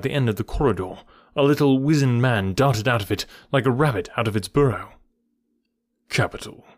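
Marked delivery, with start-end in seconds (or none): 6.1-6.6 calm, level approval; composed and unhurried. A narrator's reading. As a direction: say it calmly, unruffled. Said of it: "said Holmes calmly".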